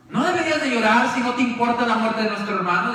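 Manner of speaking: scolding sisters, lightly voiced; mild reproach. Las hermanas reprochan a Jesús, con leve enojo. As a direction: tell him off with hurt. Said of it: "diría Marta y María".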